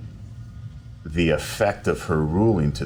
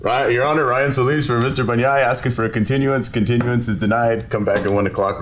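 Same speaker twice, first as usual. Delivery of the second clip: louder, higher, businesslike recital; courtroom address; 6 semitones higher, 5 dB louder than usual. Retold or imitated. Lawyer asking the judge for a continuance, brisk formal address. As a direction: rattle off the formalities, projecting.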